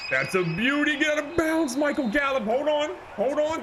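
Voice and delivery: high, loud thrilled yelling; yelling it's a beauty, hold on; excited shout. Real, not acted. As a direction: scream at the big catch. Big play, screaming.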